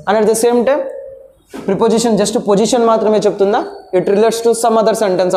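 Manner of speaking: slow, measured English phrasing; slow, deliberate recital. Shown as a demonstration. Teacher slowly repeats the definition to students. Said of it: "అని కూడా అన్నాను".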